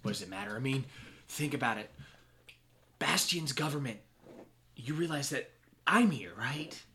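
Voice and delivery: lazy smug taunting; smug villain. Acted. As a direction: gloat over the captives. Villain gloats.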